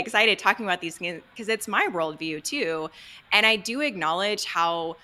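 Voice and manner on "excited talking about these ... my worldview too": louder, quick rush of excitement; real excitement. Real, not acted. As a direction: talk fast, eager to share your own worldview. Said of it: "hear the excitement in my voice".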